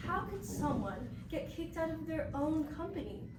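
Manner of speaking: livelier, playful rhetorical question; raw and humorous. Shown as a demonstration. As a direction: make the question sound funny and raw. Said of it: "make it sound more interesting, more raw".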